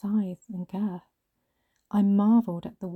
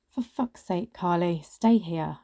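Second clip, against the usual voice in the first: exasperated command; 3 dB louder, slower than usual. Acted. Colleague leaving Carly outside, an exasperated command. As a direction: order them to stay put. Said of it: "she commanded".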